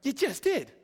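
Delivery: high, breaking into a laugh; laughing retort. Retold or imitated. Preacher telling the congregation his childhood comeback, laughing. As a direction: laugh out the punchline. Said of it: "And I'm like".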